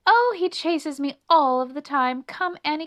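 high, loud mouse voice; lively city mouse; city mouse character. A narrator's reading. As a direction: brush off the danger to a friend. Melissa brushes off the dog.

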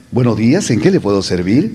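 warm, smiling greeting; friendly greeting. Shown as a demonstration. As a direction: say it with a pleasant smile. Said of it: "el gesto más agradable".

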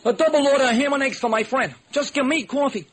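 high, friendly street hustler; street beggar voice. Acted. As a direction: caught out, then kindly. Beggar orders food.

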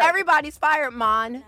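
playful Jamaican accent impression. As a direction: toss it off in a hammed-up Jamaican lilt. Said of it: "That was Jamaican".

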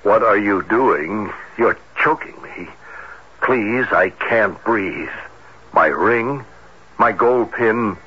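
captain reads the dead woman's words aloud, mildly frightened; victim's pleading words read out. Retold or imitated. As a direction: read the strangled victim's plea with mild fear. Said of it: "The voice said".

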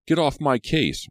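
high, loud, drawn-out retort; angry snap. A narrator's reading. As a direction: tell her off, high and loud. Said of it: "Ricky snapped angrily at her".

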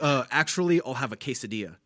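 imitating a precise, polite customer; lightly voiced proper-English order; very proper speaker. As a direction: order with carefully pronounced words. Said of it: "'cause he talks so proper".

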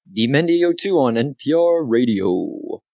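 lightly put-on radio host; a hint of a radio station announcer; radio guy. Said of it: "do I sound like a radio guy?".

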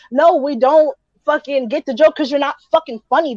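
usual speaking voice

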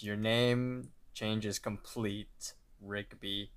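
slow, understated impersonation of an unhurried clerk; sloth-like clerk. Retold or imitated. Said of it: "sloth from Zootopia".

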